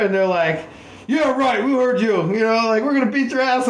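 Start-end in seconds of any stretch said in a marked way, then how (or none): 1.1-3.7 high, hammed-up bully voice; imitating the rivals' threat; mock tough threat. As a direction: threaten like a cartoon thug. Rivals threaten a beating, retold.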